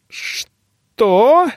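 high startled question; shocked. Acted. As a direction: caught off guard. Shocked girl's voice.

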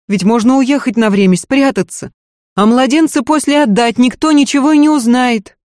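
a scared maid begging her lady to listen; frightened maid. Acted. Maid warns the lady it is too late, pleading.

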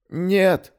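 high rasped cry, voice strained; hoarse rasp. Acted. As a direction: croak it out in pain. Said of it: "прохрипел Кеша". (хриплый крик)

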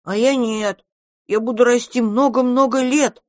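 put-on high small-child voice; childish, high and emphatic; little dragon. A narrator's reading. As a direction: announce it like a proud kid. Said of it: "сообщил дракончик".

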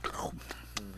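voiceless mouth-made gulp; imitated catching noise. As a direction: mimic fruit landing in an open mouth. Imitates turtle catching persimmons.

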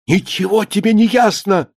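high, indignant retort; thin-voiced cry. A narrator's reading. Writer contradicting his critic on the phone, thin indignant cry. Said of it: "закричал Ефим ещё более тонко".

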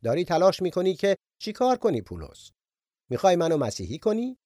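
mild mocking sarcasm; sarcastic. King Agrippa mocks Paul, a touch sarcastic. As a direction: lightly tease the preacher.

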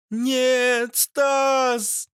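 high, shrill fangirl scream; screaming fan girl. Acted. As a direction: wail it like a horrified fan. Fans scream as arm cut.

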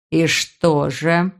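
very slow, low curious voice; interested brother. Acted. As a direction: draw it out, low and intrigued. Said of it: "явно заинтересовался её брат".

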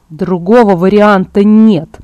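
slow, forceful bellow; roaring. Acted. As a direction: slam each word down. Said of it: "заревел он".

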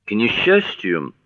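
slow, hesitant opening; awkward admission. A narrator's reading. Mr Underwood explains their childlessness, slowly and awkwardly. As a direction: start haltingly, drawing the words out. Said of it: "мистер Ундервуд прокашлялся".

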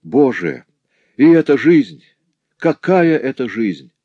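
a cry of despair rising loud on the second line; despairing outcry. A narrator's reading. Jeweller Morel crying out to his family in despair. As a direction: throw it out like a man at the end of his rope. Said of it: "вскричал в порыве отчаяния".

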